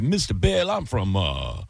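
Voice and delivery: country-accented mock sheriff's call; imitated country accent. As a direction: mimic a fake cop's cool country accent. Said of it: "like, a cool country accent".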